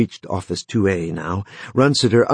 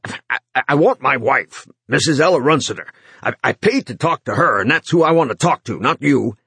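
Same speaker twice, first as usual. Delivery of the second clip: halting, tripping over words; stammering; 5 semitones higher than usual. Acted. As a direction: stammer it out, upset.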